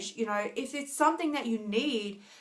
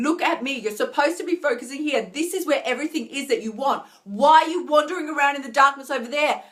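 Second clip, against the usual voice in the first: voice of the light; 4 semitones higher, 3 dB louder than usual. Pretend. Voice of the light again.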